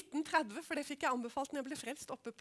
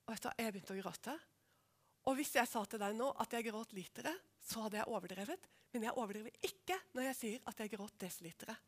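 lower, much softer, fading to a whisper; hushed confession; 5 semitones lower, 8 dB quieter than usual. Real, not acted. Preacher confessing to the congregation how she wept, whispered. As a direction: tell it close and near tears.

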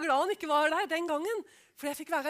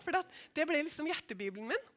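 ordinary talk

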